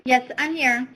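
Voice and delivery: talking with a mouthful of carrot; munching between words; chewing while talking. Real, not acted. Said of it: "I'm munching on a carrot".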